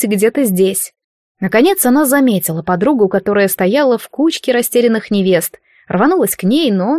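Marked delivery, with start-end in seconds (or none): none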